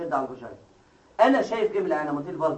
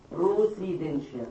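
slow term; slower than usual. Shown as a demonstration. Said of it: "احنا قلنا يعني ايه بروسيدنشيا".

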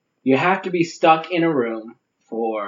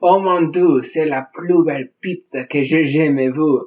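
mock Frenchman; 2 semitones higher than usual. Mock French food lover.

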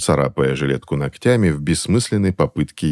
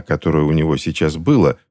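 usual speaking voice

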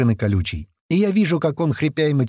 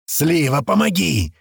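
raised, high call; shout for help; 4 semitones higher, slower than usual. A narrator's reading. Колючий calling from the wreck, shouting. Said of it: "снова кричит Колючий".

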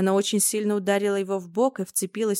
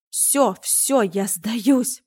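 loud, hoarse gasp of surrender; rasping loud plea to stop; hoarse wheeze; 2 semitones higher, 5 dB louder, much slower than usual. Acted. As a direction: croak it out, beaten and winded. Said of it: "прохрипел Чёрный".

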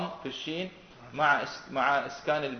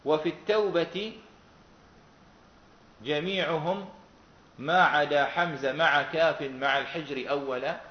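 slow, measured verse reading; verse quotation; slower than usual. Shown as a demonstration. Teacher quotes the poet's verse to students, measured recitation. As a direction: quote the poem line slowly. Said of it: "إما أن يقول".

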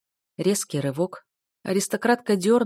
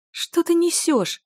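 much higher, slow, furious retort; growling indignation; 11 semitones higher, 4 dB louder, slower than usual. Acted. Del outraged at the fake victim, angry. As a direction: snap back at the liar. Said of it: "зарычала Дель".

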